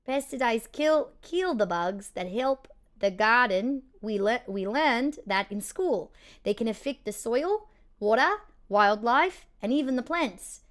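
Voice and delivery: a lightly done New Zealand accent, practice read. Shown as a demonstration. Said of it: "day one of a New Zealand accent".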